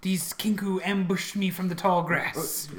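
slow character voice; slow, deliberate in-character answer; weary ambush victim. Acted. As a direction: repeat it slowly in character. Game master repeats answer in character.

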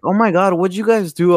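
high, eager mock gossip; nosy classmates. Retelling classmates' curiosity, high mock voice. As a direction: ask like curious friends dying to know. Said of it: "they were like".

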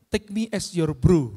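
slow, deliberate English motto; slow quote. Shown as a demonstration. Speaker quoting his own written motto, slow and deliberate. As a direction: spell out the motto slowly. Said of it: "Saya tuliskan begitu".

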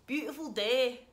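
beautiful day shouted high and gleeful; 1 joyful shout. Real, not acted. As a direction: belt it out like a cheer. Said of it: "frickin' beautiful day".

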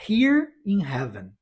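slow and clear; drawn out for the class to copy; slow model phrase. Shown as a demonstration. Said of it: "Vamos repetir essa". (frase lenta e clara)

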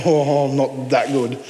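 hammed-up glum answer; mock downcast reply. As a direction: drag out an awkward confession. Acts awkward reply to greeting.

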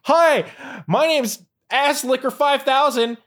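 high, excited goofy dub. Retold or imitated. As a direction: ham up a silly dubbed contestant. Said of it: "So it'd be like".

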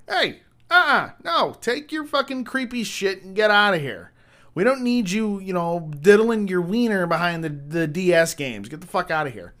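high, loud scolding that settles toward the end; indignant telling-off. Retold or imitated. Store worker kicking out creepy kid, indignant. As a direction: shoo off a pest, opening sharp and high.

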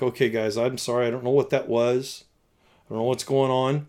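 low, subdued retold apology; composed apology. Youth leader apologizing to the kids after crying, subdued. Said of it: "I felt like I had composed myself".

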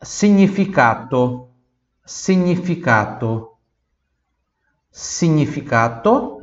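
significato said slowly, gn as nh, clear T; teacher models significato syllable by syllable; slow Italian model word. Shown as a demonstration. Teacher modelling significato for students to repeat.

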